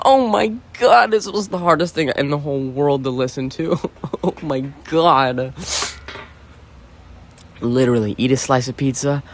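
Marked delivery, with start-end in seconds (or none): 0.0-5.5 laughing disbelief. Real, not acted. Reacting to a hard listen.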